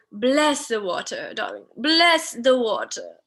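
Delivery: mock-London accent, slow and savoured; playful British accent on "water". Shown as a demonstration. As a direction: say water like a London-born grandparent, drawn out. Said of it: "with this nice accent with the word water".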